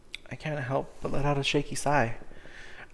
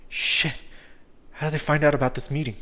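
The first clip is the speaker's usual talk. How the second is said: panicked outburst; 6 dB louder than usual. Acted. Panic as soldiers approach.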